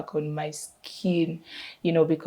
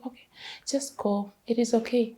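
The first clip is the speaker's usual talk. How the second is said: softer, higher voice imitating an okay-with-it mom; accepting mother; 5 semitones higher, 5 dB quieter than usual. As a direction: give easy permission, quietly, as mom. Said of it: "she was okay with it".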